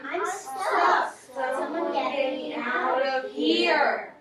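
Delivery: frantic shout. Acted. Reading a shouted line aloud.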